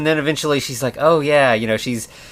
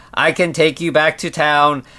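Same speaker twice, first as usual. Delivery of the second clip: flat, mechanical robot voice in monotone. Describing a movie scene, quoting the mistress character: robotic voice. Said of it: "also a very robotic voice".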